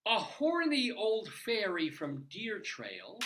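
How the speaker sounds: slow, measured poem recitation; bouncy limerick lilt. Acted. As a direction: recite each line with a pause. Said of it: "let's have a limerick of the damned".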